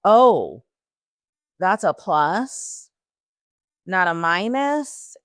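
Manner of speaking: slow stunned reading of the test; stunned realization. Retold or imitated. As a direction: drag it out in shock. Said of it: "I looked, I was like".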